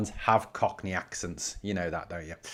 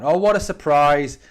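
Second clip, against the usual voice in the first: slow, louder mock surprise; sarcastic; 4 semitones higher, 7 dB louder, slower than usual. Real, not acted. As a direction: drag it out, dripping with sarcasm. Mocking an Everton-supporting commenter.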